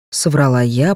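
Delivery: usual speaking voice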